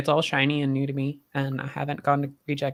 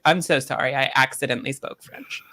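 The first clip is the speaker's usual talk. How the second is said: mock apology. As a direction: parrot his excuse back sarcastically. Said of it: "And I was like".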